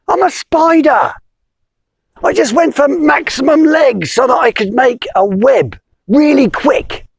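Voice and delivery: high squeaky plea; pleading spider. Acted. Spider begging the wizard, high and pleading. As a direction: beg in a tiny high voice.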